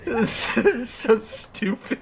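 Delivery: laughing. Real, not acted. Laughing fit.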